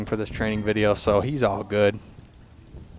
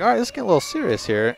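man in the video; 7 semitones higher, 4 dB louder, much faster than usual. Acted. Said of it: "another guy in the yellow is like".

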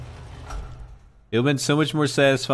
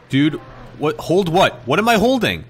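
exasperated confusion; 9 semitones higher than usual. Real, not acted. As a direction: protest it in rising disbelief. Confused by controls.

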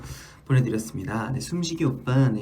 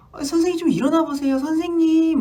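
put-on much higher childlike plea; child pleading; 4 dB louder than usual. Child at the window begging the teacher to wake, high and pleading. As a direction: coax the teacher awake like a kid. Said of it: "막 이러는 거예요".

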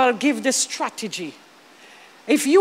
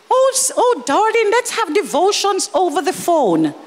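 lightly voiced sugary suitor, first word pitched high; a hint of a charming boyfriend; mock sweet boyfriend; 5 semitones higher than usual. Preacher mocks a boyfriend's pious sweet talk, lightly sugary. Mocking a smooth-talking boyfriend.

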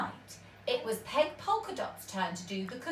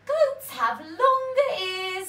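higher squeaky correction; a small mouse putting him right; little mouse; 9 semitones higher, 5 dB louder than usual. A narrator's reading. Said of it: "said the mouse".

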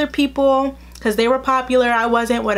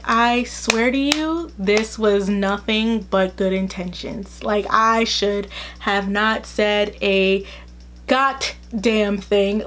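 earnest pleading; 2 semitones lower, much slower than usual. Retold or imitated. Telling mom she meant well, slow earnest plea. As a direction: plead your good intentions slowly.

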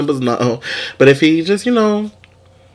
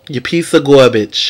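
"You piece of garbage" in a New York accent, "garbage" said "gahbidge"; slow, tough New York accent on "You piece of garbage"; mock New York accent. Shown as a demonstration. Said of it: "in my New York accent".

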